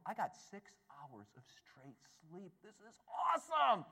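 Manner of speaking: elated disbelief. Retold or imitated.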